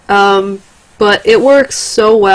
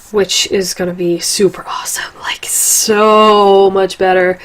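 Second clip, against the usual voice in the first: whispering. Real, not acted. Whispered aside about the setup.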